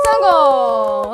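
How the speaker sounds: loud, drawn-out victory shout; triumphant cheer. Real, not acted. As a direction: celebrate the win at full voice. Success after breathing challenge.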